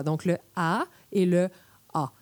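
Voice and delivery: "A" said first front, then back and dark; two Québec As. Shown as a demonstration. Demonstrating the two Québécois A sounds to listeners. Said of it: "on distingue deux A".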